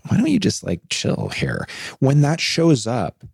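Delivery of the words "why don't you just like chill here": annoying inner voice. Retold or imitated. Imitating the annoying inner voice that tells her to just chill. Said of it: "that annoying voice, it's like".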